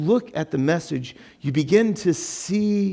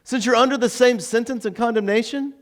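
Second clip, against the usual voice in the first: higher-pitched, earnest reproach; acted rebuke with raised pitch; rebuking; 6 semitones higher than usual. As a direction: reprove a fellow condemned man. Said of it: "the other one rebukes him".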